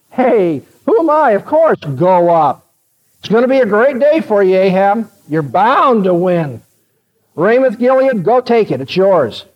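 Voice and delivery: mock-encouraging, lively sarcasm; sarcastic. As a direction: egg him on with feigned agreement. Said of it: "very sarcastically told Ahab".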